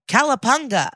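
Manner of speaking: playful put-on American accent; mock American accent. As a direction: throw out a mock American catchphrase. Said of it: "that's them pretending".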